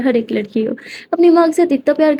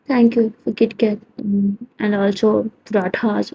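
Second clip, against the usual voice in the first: shy slow thanks; 5 dB quieter, much slower than usual. Acted. Simran's shy thanks after the hug.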